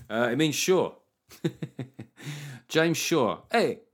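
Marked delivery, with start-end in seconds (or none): 2.7-3.8 half-formed mock Italian accent, higher. Host riffs on a patron's Spanish-sounding name, botched Italian accent. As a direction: slip briefly into a hammy Italian accent. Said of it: "An Italian accent there".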